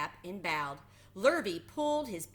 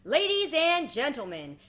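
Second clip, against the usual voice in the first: higher, louder fair announcer; loudspeaker announcer; 8 semitones higher, 8 dB louder than usual. A narrator's reading. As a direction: open the ceremony for the crowd. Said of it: "continued the loudspeaker".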